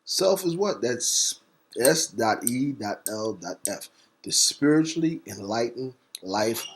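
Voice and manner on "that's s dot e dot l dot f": "S dot E dot L dot F" spelled slowly and evenly; deliberate letter-by-letter spelling. Shown as a demonstration. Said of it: "And next is self".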